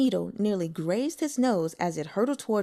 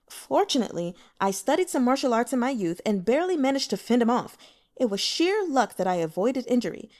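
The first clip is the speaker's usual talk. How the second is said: a touch higher, earnest pleading; lightly voiced Wen Liang; 4 semitones higher than usual. Broker pleading his innocence to the officials, lightly voiced. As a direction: defend yourself with nervous courtesy.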